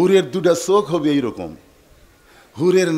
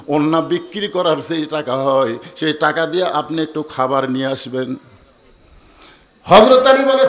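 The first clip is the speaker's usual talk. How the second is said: half-chanted waz storytelling; sermon storytelling; 3 dB louder than usual. Acted. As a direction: tell the holy tale in a singsong cadence. Chanted telling with figures' speech.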